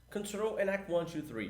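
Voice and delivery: English radio call, callsign counted out. Shown as a demonstration. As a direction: read the call like a pilot on the radio. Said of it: "Como é que eu falo isso?".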